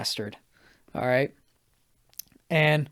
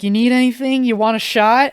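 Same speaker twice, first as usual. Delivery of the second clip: high, loud imitation of a hostess offer; retold eager hostess; 8 semitones higher, 6 dB louder than usual. Hostess offering the guest a shot, high eager imitation. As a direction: pitch it up like an eager host.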